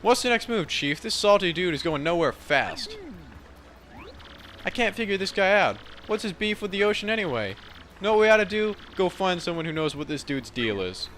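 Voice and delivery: high, perky partner voice; high-pitched companion grumbling to the boss; puzzled sidekick. Acted. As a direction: pipe up high, baffled and eager. Partner asks what to do.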